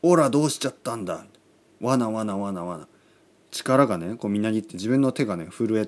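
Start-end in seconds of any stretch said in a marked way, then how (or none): 0.0-2.9 fast, excited anime hero; a hint of Goku powering up. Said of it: "悟空だったらね".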